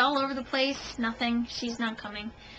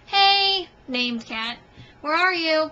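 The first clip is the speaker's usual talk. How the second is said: calling out; 4 semitones higher, 6 dB louder, slower than usual. Retold or imitated. Imagined calling out for the cat.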